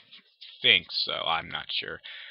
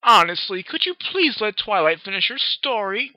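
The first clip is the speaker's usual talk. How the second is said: louder, high prim scold; 10 semitones higher, 6 dB louder than usual. Acted. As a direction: scold her like a proper lady. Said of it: "Rarity scolded".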